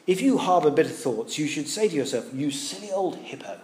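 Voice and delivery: lightly put-on very posh English accent; a hint of posh English gentleman; John Stott. Old London preacher advising the bitter, very posh English accent. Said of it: "imagine him in a very posh, uh, E-, English accent".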